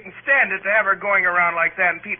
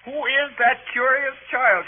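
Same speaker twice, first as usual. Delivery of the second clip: snooty lady voice. Retold or imitated. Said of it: "the way she said it".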